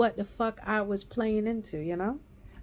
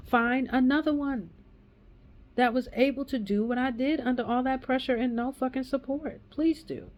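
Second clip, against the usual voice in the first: angry dare; 4 semitones higher than usual. Real, not acted. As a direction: spit it out as a challenge. Angry rant at critics.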